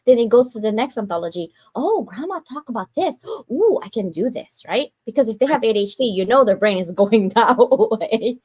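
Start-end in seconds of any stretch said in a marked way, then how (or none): 1.8-4.6 imagined excited discovery. Retold or imitated. Imagined descendant discovering grandma's book.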